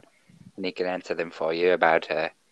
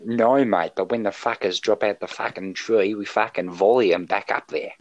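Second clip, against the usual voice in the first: put-on Australian accent; 2 semitones higher than usual. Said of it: "he is, in fact, from Australia".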